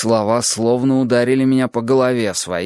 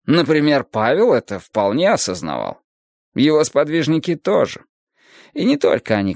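lightly voiced philosophical teacher, raised pitch; Adonis expounding; 4 semitones higher than usual. Adonis expounds the emptiness of the world, lifted lecturing voice. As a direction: expound it as a patient sage, slightly lifted.

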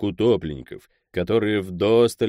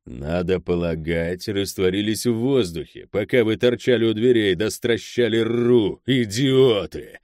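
scornful rebuke. Acted. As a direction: boss berating his henchmen, rising in force. Boss berates his two henchmen.

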